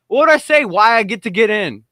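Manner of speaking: ordinary talk, nothing marked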